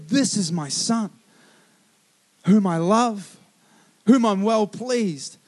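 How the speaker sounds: slow, measured proclamation, lightly acted; a hint of God's booming voice, drawn out; booming voice from heaven. God announcing his Son for people to hear, lightly booming. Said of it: "An audible voice booms".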